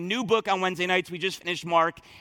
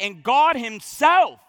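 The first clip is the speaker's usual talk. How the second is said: "God himself" slow and a touch louder; exclamation-mark stress on "God himself"; emphatic God himself; 4 semitones higher, 6 dB louder, slower than usual. Shown as a demonstration. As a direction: lean hard on "God himself". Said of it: "it's emphatic".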